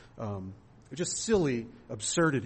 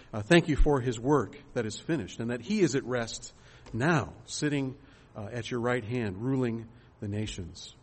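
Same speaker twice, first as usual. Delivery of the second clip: earnest congregational prayer, unhurried; closing prayer; 2 semitones lower than usual. Acted. Pastor leading the congregation in prayer, earnest. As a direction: pray it over the people, steady and sincere.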